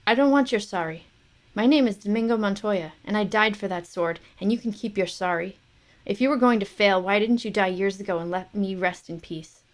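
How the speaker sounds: loud, bitter rebuke; a dead father berating his failed son; father's scolding. Acted. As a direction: scold him from the grave.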